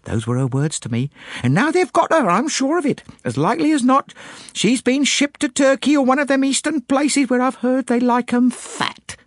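high-pitched maid gushing with lurid conviction; excited maid. A narrator's reading. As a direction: pour out your theory, thrilled and scandalised. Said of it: "fairly flowed into excited speech".

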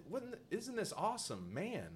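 high, slow friendly quote; repeating what he actually said; innocent enthusiasm. Retold or imitated. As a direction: say it all innocent. Quoting his own line.

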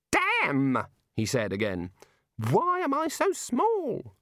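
high, slow anguished squeak; high self-pitying little god; dismayed god. A narrator's reading. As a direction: wail about being small. God dismayed at his size.

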